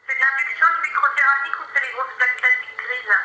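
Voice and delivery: tinny phone call voice; over the phone. Real, not acted. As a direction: voice through a phone line. Phone agent speaking.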